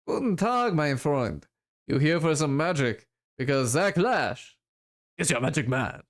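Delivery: lightly put-on vague European accent, greeting a customer; a hint of a showy street hawker with a muddled foreign accent; Zach's muddled accent. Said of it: "what accent I'm doing for him".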